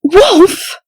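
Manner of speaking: high, loud warning cry of his name; sharp shout. Acted. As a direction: snap his name out to stop him. Partner reins in the detective.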